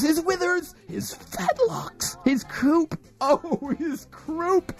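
high, giddy gushing; giddy delight. Acted. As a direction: coo over every part. Gushing over the pony.

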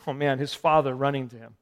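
ordinary talk, nothing marked

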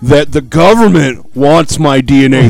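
a hint of a self-important dad; mock dad voice. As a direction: imitate a dad, dragging out his grand claims. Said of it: "your dad's like".

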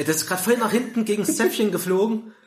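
half-choking on a candy; throat still catching on a swallowed lozenge; gagging. Real, not acted.

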